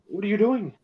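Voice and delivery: high, exasperated cry at the quarterback; exasperated yell. Retold or imitated. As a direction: shout it in disbelief, pitched high. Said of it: "it's like".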